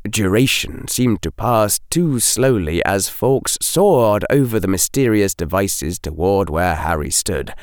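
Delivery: ordinary delivery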